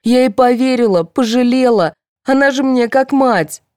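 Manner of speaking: high, strained distraught voice; sobbing. A narrator's reading. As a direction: pour it out near tears. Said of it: "зарыдала Фёдорова".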